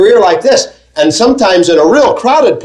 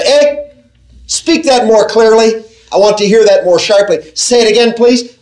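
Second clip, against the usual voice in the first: higher, earnest asking to hear again; straining listener; 4 semitones higher than usual. Retold or imitated. Preacher voices a listener eager to hear God's word. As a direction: lean in and ask for it again.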